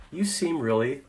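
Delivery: slow down and gently name their feeling; calmly answering an upset staffer. Shown as a demonstration. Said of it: "The answer is".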